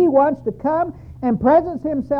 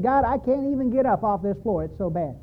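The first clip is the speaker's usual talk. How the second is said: defeated prayer; 4 semitones lower, 4 dB quieter than usual. Retold or imitated. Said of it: "And I said".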